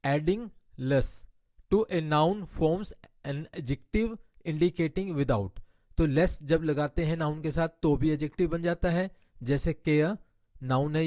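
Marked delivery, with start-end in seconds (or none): 0.0-5.6 slow, deliberate reading of an English grammar rule. Shown as a demonstration. Teacher reading a grammar rule to her Hindi-speaking class, slow and deliberate. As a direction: spell out the rule word by word for students.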